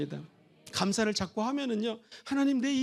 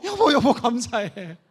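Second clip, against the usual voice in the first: forced thanks; 4 dB louder, slower than usual. Pretend. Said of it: "억지로라도".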